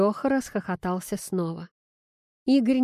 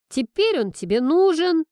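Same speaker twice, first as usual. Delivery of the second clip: higher and louder insistent declaration; unyielding; 9 semitones higher, 7 dB louder than usual. A narrator's reading. Daughter overruling her father, higher, louder and unyielding. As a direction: put your foot down, no arguing. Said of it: "звучала непреклонность".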